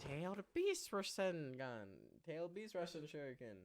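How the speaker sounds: mock attack call. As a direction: pretend to call out an anime special move. Calling out anime attack names.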